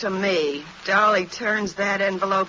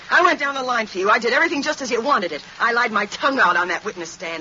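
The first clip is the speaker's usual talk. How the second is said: louder, rushing, indignant; angry outburst; 3 semitones higher, 4 dB louder, faster than usual. Acted. Betrayed woman confronting the gangster, angry and rushing. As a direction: pour out the grievance fast and hot.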